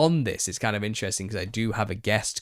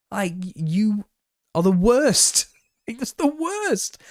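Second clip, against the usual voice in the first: high, loud, half-laughing rant; real annoyance breaking into laughter; worked-up and laughing at once; getting mad; 11 semitones higher, 5 dB louder, slower than usual. Real, not acted. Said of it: "I'm getting mad".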